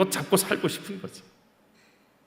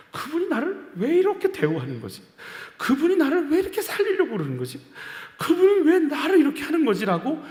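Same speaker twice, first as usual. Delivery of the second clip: rising amazed questions; 10 semitones higher than usual. Real, not acted. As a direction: let the questions climb in astonishment. Climactic wondering questions.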